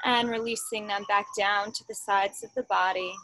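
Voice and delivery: measured meditation guide, long pauses between instructions; guided meditation. Real, not acted. Teacher guiding a group into standing mountain pose, calm guided-meditation delivery. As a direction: lead them gently through a meditation, unhurried.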